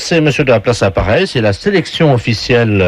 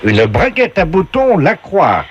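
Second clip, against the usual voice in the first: higher, slow showman reading; game show announcer voice; 5 semitones higher than usual. Pretend. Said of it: "la voix du jeu".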